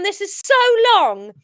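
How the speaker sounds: plain reading voice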